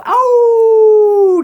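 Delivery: loud, high howl at the moon; wolf howl. Retold or imitated. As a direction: throw your head back and howl like a wolf. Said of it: "howling at it like a fucking wolf".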